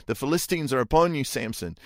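mock alarm call to wake him; crying out. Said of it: "she cries out".

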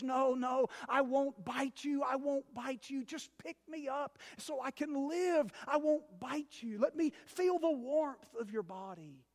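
lightly voiced sly snake, coaxing; pleading snake. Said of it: "And the snake says".

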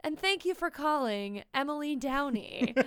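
retold formal voicemail, lightly done; adult voice. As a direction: try to sound professional. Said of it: "I had my most adult voice on".

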